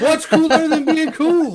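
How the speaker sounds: high loud rally call; shouted call. Acted. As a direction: belt it out to the crowd. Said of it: "I can't hear ya. I said".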